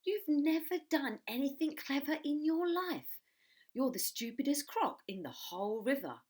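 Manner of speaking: high, loud, slow jeer; taunting small croc. Acted. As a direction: jeer at him. Small croc mocks big croc.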